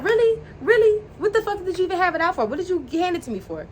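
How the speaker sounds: acted indignant disbelief. Retelling her challenge to him over the money, indignant disbelief.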